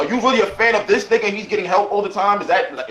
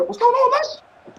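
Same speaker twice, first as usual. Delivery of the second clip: drawn-out greeting; much slower than usual. Real, not acted. Host calling out a hello to Lush as he joins, slow and high. Greeting guest joining call.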